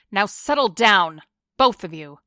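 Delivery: loud, stern order; a loud warning to two brawling men; firm command. Acted. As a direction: bark them into line. Breaking up a fight.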